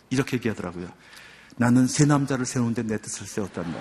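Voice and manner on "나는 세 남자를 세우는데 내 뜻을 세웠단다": says it with a light laugh; amused, gently laughing reply; smiling laugh. Retold or imitated. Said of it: "빙긋 웃으면서".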